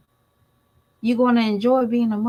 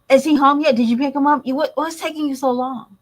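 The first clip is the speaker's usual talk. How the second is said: imitating a panicked mom, louder and higher; panicked mother; 5 semitones higher, 4 dB louder, faster than usual. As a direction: rattle off worried questions. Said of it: "she panicked".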